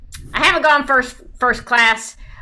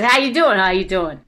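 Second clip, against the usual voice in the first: Jersey greeting. Shown as a demonstration. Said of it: "So it goes".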